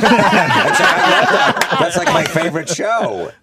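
high, loud, excited fan gush; squealed mock enthusiasm, high and loud; mock gushing date. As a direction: imitate a delighted girl gushing. Retold gushing date, oblivious.

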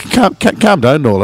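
high, stammered plea; imitated nervous placating. Scared friend to intimidating dad, high stammering placation. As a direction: stumble over the words, pitched high.

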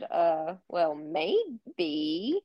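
retold hesitant reply, drawn-out maybe. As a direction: tentatively stretch the maybe, lifting at the end. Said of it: "like, this little hesitation".

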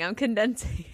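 hushed repeat; whispered aside. Real, not acted. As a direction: murmur it under your breath.

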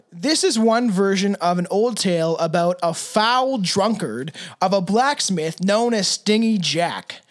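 slow, drawn-out campfire-tale read; lightly hammed spooky storyteller; spooky story narration. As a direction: tell it like a ghost story, slowly.

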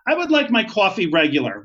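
put-on a touch of New York accent; mock New York coffee order. Passenger asking for regular coffee, in a mild New York accent. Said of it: "That's my New York accent".

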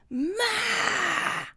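high, drawn-out whine for mom; imitated kid calling. Mother mimicking her kid the second she looks away, high whining call. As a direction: hold one long high "Ma" like a demanding child. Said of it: "The second that my eyesight turns away from him".

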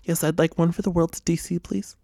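hushed whispered order; whispering. Pretend. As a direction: whisper it like a secret request. Mock ordering a ticket.

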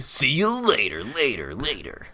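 fading goodbye. Pretend.

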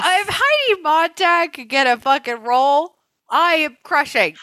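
high, badly faked muddled accent; Heidi Montag. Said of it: "Heidi Montag's accent and ours".

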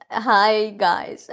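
feeble attempt at Australian; failed Australian accent. Shown as a demonstration. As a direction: try an Aussie accent and give up. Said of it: "I can't do an Australian accent".

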